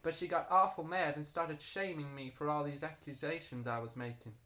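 put-on harlot telling her story in an American accent. Harlot explaining the broken candle to investigators, put-on American accent. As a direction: give her account in an assumed American accent. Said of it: "This is very American".

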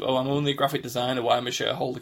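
a hint of a self-deprecating designer, quick; quirky character. Friend voicing a quirky side character, fast and light. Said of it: "a quirky kind of".

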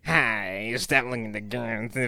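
slow, drawn-out celebrity impression; French Stewart. Co-host scolding the peeper as the actor, drawn out. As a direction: stretch the words out in a comic imitation. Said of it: "it's hard to do French Stewart".

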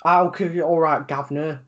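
hammed-up Cockney geezer patter; teasing fake London Cockney; mock Cockney accent. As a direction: mimic a southerner's Cockney accent to tease them. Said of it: "your accent's funny".

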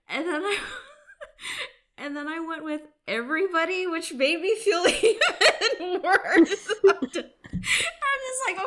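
high, breaking laughter through words; laughing. Real, not acted. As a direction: giggle helplessly while talking. Embarrassed laughing retelling.

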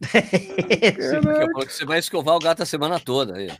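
laughing while talking. Real, not acted. Teasing through laughter.

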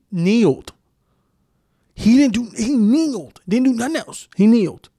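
high-pitched, exasperated disbelief; incredulous emphasis. Real, not acted. Defending Kaepernick who only knelt, incredulous. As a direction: punch it out high, baffled by the outrage. Incredulous outrage over a kneeling protest.

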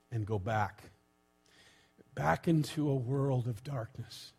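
measured spoken prayer with long pauses. Real, not acted. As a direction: lead the congregation in prayer, phrase by phrase. Leads a prayer.

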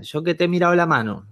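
high, pleading street seller; high wheedling hustler voice; gypsy woman's pitch. Retold or imitated. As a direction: mimic the flower-selling gypsy. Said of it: "me decía".

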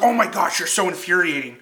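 exasperated quote. Retold or imitated. Mother-daughter quarrel quoted.

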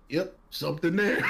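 quoting the doctor, breaking into laughter; doctor quote laughing. Retold or imitated. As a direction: crack up while quoting him. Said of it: "I will never forget this".

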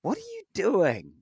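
sudden high incredulous question; a player cutting in, baffled by the bad accent: high disbelieving. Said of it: "one of my players go".

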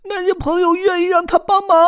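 very high, loud squirrel yell; squirrel shouting. Acted. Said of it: "松鼠大叫".

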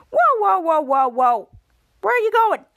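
loud, high run of whoas; urgent acted call to stop; calling to stop someone. Stopping Henry from walking away.

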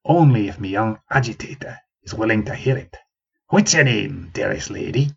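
bow and invite her gently; old man courting the young woman, gently; gentle courtesy. Acted. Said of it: "he bowed his head gently".

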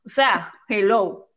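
slow drawn-out mocking "hello"; dry sarcastic drawl. Real, not acted. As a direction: stretch it out, eye-rolling. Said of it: "sarcastic hello".

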